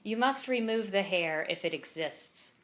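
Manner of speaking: measured poem recital with pauses between lines; poem read aloud at a live reading; poetry reading. Acted. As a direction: read each line deliberately, letting it land. Reads own poem aloud.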